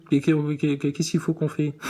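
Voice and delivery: dragged out slowly, word by word; slow insistent repeat. Shown as a demonstration. Vlogger pressing the astronaut for an answer, slowly. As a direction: stretch the question out to press him.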